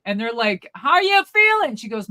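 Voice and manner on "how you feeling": high, loud hollered question; mock yelling. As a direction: shout it up high as if she's deaf. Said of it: "you don't need to yell".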